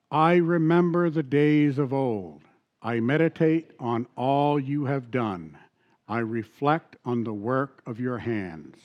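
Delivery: slow, measured Bible reading; reading a psalm aloud to the congregation; scripture reading. Acted. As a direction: lay each verse down slowly. Reads scripture slowly.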